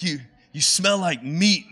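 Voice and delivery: lightly voiced naive elf; a touch of Buddy's wide-eyed accusation; imitating Buddy. Pastor quoting Buddy to the fake Santa, lightly voiced. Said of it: "and he's like".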